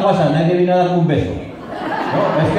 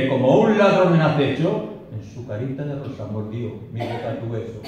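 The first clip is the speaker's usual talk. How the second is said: poem recitation. Acted. The lover tells of the stolen kiss, dramatic recitation. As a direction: build the story, then let the last line drop tenderly.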